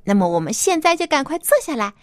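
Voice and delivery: put-on bright host voice for kids; reading to a toddler. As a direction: talk gently to little children. Host talks to children.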